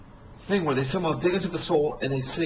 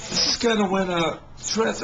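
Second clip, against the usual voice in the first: laughing; 4 semitones higher than usual. Real, not acted. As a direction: let the laugh spill into the words. Laughing while starting story.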